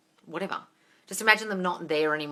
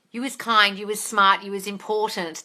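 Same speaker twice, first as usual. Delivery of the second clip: fond quote of the maid's line; movie quote; 4 dB louder than usual. Retold or imitated. Quoting the film line to viewers, tender and loud. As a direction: say it like the nanny comforting a child.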